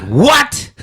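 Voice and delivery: high, stunned what; mocking a porn actor's shocked reaction. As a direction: squeak it out in disbelief. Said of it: "kinda like that".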